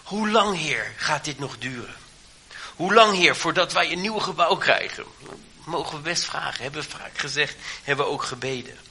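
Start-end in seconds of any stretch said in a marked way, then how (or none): 0.0-5.0 higher, pleading cry of a people in hard times; heartfelt cry. Retold or imitated. A believer in a hard time begs God to act, pleading. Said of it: "men gaat door een moeilijke tijd heen en men roept".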